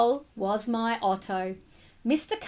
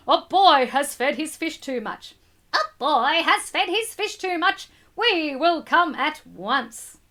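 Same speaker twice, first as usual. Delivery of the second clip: a lightly voiced fireman, a touch louder; 3 semitones higher, 4 dB louder than usual. Teacher voicing the fireman on the radio, light role voice. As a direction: read it as the fireman, brisk. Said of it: "So that's the fireman".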